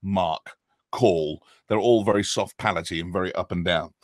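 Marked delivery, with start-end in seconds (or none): 0.0-1.4 British accent demo. Shown as a demonstration. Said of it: "a British accent has an egg".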